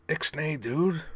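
high, squeaky little-robot hush; gruff grumble. Acted. Rumble shushing his brother, grumbling in a squeaky voice. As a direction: hiss it at your brother. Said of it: "Rumble grumbled".

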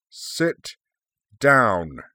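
loud, drawn-out order in two separate blasts; booming command. A narrator's reading. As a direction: boom it out like a huge dragon. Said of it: "he boomed".

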